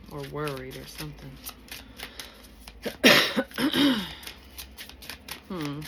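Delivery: ordinary talk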